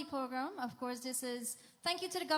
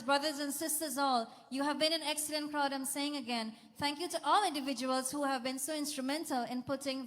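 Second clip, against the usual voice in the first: put-on overbright kids party host. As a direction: pump up the crowd. MC hyping the crowd.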